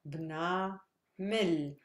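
"Bna" drawn out, short pause, then "Mil"; teacher's syllable demo, "Bna... Mil"; separated syllables. Shown as a demonstration. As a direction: break the word after "Bna", then "Mil". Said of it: "here is the first syllable".

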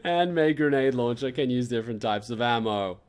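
loud, gleeful item read; excited reading. Real, not acted. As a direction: read it out thrilled.

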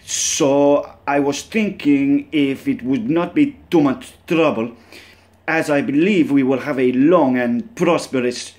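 mock Russian accent, formal phrasing. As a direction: play a scammed Russian caller, hamming up the accent. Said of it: "Not sure how my Russian accent's gonna sound".

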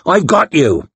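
a hint of a gruff big man's reassurance; lightly growled, comforting a wounded friend. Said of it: "he growled".

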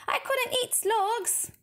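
put-on high, slow disgusted boy voice; horrified boy. A narrator's reading. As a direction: pull back in horror. George disgusted.

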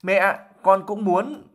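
high, slow plea, close to tears; a little girl wailing to her mom; whining wail. Acted. Slow, high whining plea. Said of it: "Ginny cũng mếu máo".

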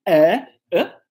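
first "Ah" strong and open, second short neutral uh; carrot then schwa. Shown as a demonstration. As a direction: contrast two similar vowels, "Ah" then a weaker "ah". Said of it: "o som realmente é muito parecido".

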